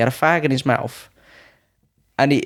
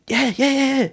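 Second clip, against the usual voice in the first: very high imitated yeses; rapid-repeat agreement in a high put-on voice; Thai trainer; 13 semitones higher than usual. Trainer confirming the stadium fight, high imitated assurance. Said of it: "And he went".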